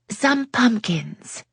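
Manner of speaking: very slow, relished Some pumpkins; savoring the phrase. A narrator's reading. Yasmin sharing a favorite American phrase, very slow. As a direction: draw out Some pumpkins fondly.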